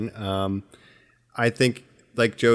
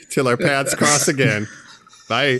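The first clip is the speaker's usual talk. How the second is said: dramatic farewell; 3 semitones higher, 4 dB louder than usual. Pretend.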